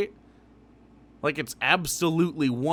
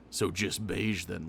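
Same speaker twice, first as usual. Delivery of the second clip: mocking imitation; 5 semitones lower, 4 dB quieter, slower than usual. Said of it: "he has to constantly stop".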